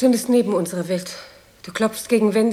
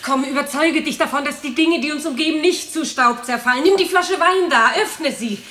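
urgent persuasion; 5 semitones higher than usual. Acted. Urging frightened spouse to be reassured.

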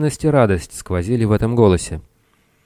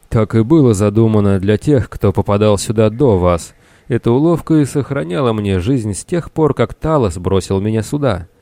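slightly raised, animated character voice; a hint of an excitable survivor; lightly voiced castaway sailor, explaining; 3 semitones higher, 4 dB louder than usual. Castaway explains his trick to the captain, animated.

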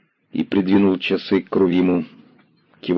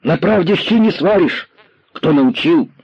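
put-on very high, shrill-pitched boy's outburst, louder; angry boy; 11 semitones higher, 3 dB louder, slower than usual. A narrator's reading. Boy raging at the commissar about lying. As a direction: fling it back in a fury. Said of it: "сердито повторил мальчик".

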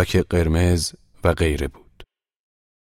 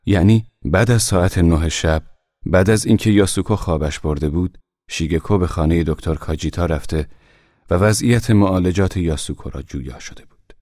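ordinary delivery

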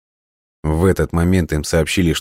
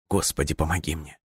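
hushed, soft plea; whispered prayer; 8 dB quieter than usual. A narrator's reading. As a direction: softly beg God for help. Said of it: "прошептал парень".

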